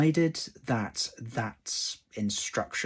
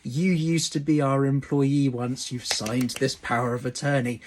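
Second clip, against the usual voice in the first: lightly voiced employer, louder and higher at first; employer's voice; 4 semitones higher, 6 dB louder than usual. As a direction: play a mildly assertive employer laying a claim. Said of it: "your employer rocking up at some point in the future and saying".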